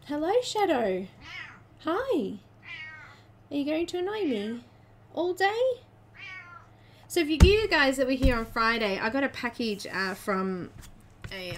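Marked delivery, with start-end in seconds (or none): 0.1-5.8 lilting, higher greeting to a pet; playful pet talk. Real, not acted. Greeting Shadow who may annoy her all day, playful pet talk. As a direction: coo a teasing hello, pitching up at the end.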